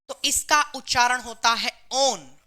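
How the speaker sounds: ओन drawn out slowly as one long on; teacher spelling out the suffix ओन; pronunciation demo. Shown as a demonstration. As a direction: sound ओन out clearly for the class.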